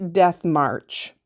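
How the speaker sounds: Death March set apart, slow and deliberate; quoted nickname. Acted. Host reading the trail's nickname, slow and marked. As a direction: say Death March slowly, as a named title.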